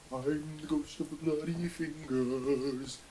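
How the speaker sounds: slow, eerie ghostly moan; spooky ghost voice. Acted. Ghost calling from the bathroom to the cyclist, eerie moan. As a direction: draw it out like a haunting.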